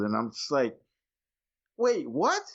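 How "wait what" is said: high, drawn-out stunned "what the fuck"; shocked disbelief. Retold or imitated. Retelling his reaction to the movie twist, stunned disbelief. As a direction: react like the twist just blindsided you.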